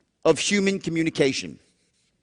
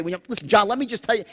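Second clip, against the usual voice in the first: certainty tone; much faster than usual. Shown as a demonstration. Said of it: "you talk certain".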